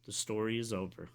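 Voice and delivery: choked up, halting; real emotion, held in; trying not to cry. Real, not acted. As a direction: hold back tears, breaking off after a few words. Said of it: "so I'm trying not to cry".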